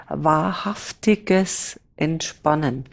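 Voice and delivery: slow, deliberate weight on "wahrhaftiges"; stress on WAHRHAFTIGES. Real, not acted. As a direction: lean on "wahrhaftiges", taking your time. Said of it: "Mit Betonung auf wahrhaftig". („wahrhaftiges“ langsam und betont)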